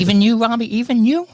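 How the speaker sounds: high, loud teasing disbelief; mock surprise. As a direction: gasp at him in fake shock.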